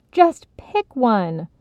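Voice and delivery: slow firm demand; too loud, impatient; insistent. Acted. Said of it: "louder than was necessary".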